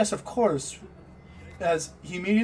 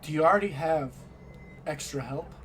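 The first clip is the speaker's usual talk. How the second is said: hesitant. Acted. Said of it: "hesitation in Hector's voice".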